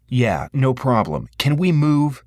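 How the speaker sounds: slow then rising, impatient. A narrator's reading. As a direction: push them to hurry up. The speaker impatient with security.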